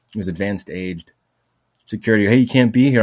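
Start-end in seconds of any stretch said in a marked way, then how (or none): 2.3-3.0 barked warning, louder and higher; mock guard shout. Old security guard shouting at the limping speaker, mock yell. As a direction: play the old guard yelling him off.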